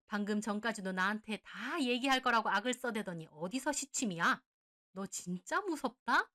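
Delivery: furious scolding. Acted. Mother scolding the shameless mistress, furious. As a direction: tear into her, disgusted.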